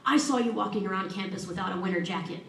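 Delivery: a hammed-up stern scolding from a kind coach; mock stern. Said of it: "she looked me very sternly in the eye and said".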